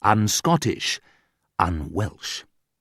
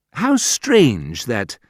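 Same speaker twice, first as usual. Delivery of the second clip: polite rudeness; 3 semitones higher, much slower than usual. Shown as a demonstration. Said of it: "Terribly rude things to say".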